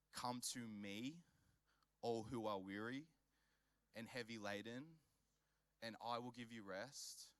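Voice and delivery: pastor softly voicing Jesus' invitation; gentle invitation.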